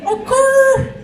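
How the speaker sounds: very high, hammed-up squeal; a bad, squeaky rapper; rapper impression. Comedian fakes a rapper for the crowd, squeaky and high. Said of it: "That's my rapper impression".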